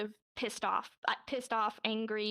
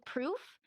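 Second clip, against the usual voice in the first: "Proof" raised, with a rising question tune; 4 semitones higher than usual. Shown as a demonstration. Demonstrating the sign while leaning in, questioning "Proof". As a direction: ask "Proof" as a higher-pitched challenge. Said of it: "you're kind of questioning them".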